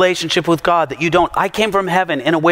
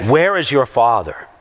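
lower, contemptuous "Where is your father?"; sneering question; 6 semitones lower than usual. Retold or imitated. The leaders mocking Jesus, low and sneering. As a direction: slur it as an insult. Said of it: "religious leaders saying to Jesus".

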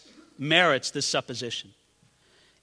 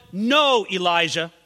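God speaking; 5 semitones higher, 5 dB louder than usual. Acted. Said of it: "what God was showing the prophet".

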